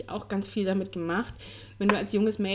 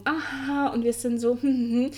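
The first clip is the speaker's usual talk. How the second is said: imitating two-faced friendliness; 3 semitones higher than usual. Woman mimics two-faced people up front, mock friendliness. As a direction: mimic people being falsely nice up front. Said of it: "die vorne rum".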